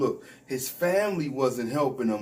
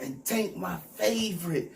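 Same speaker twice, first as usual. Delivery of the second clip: mocking quote; 4 semitones higher than usual. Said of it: "Talking about".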